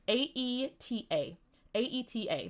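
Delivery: spelled "A E T A", each letter separate; spelling out. Real, not acted. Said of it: "I don't know how to say that word".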